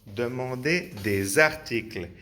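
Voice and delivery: demander des articles linked, no final s on articles; French with liaison. Shown as a demonstration. The teacher models the correct French reading. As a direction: join des to articles, drop the plural s. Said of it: "Pues no".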